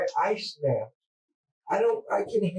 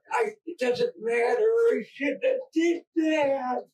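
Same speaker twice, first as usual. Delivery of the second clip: high, pleading cry of regret; blurting out guilt, near breaking; real distressed outburst; 5 semitones higher than usual. Real, not acted. Confessing killing, voice rises emotionally.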